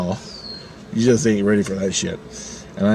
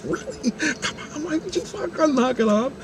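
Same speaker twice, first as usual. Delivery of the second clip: exasperated aside; 7 dB quieter than usual. Retold or imitated. Exasperated aside at her overacting.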